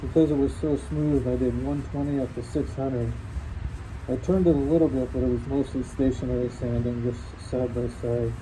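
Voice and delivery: muffled behind a dust mask; speaking through a face mask. Real, not acted. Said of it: "hear me through the mask".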